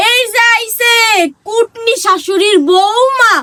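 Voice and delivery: neighbour's taunt. Retold or imitated. Daughter-in-law quotes a neighbour's taunt.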